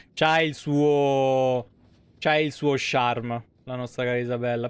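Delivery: teasing. Real, not acted. Teasing about Isabella's charme.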